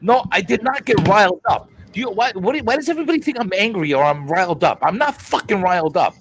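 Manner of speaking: loud, fast heated denial; heated insistence; riled up. Real, not acted. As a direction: protest you're not angry while clearly riled. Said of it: "Gee, I wonder why".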